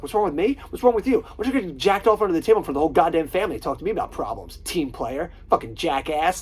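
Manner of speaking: high, loud, fast angry rant; hothead rant. Retold or imitated. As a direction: explode like a hothead. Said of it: "fucking Vince Vaughn just switches".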